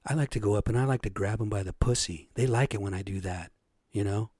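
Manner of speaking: lightly voiced smug boaster, low and hushed; mock Trump-style boast. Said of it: "he was saying behind the scenes".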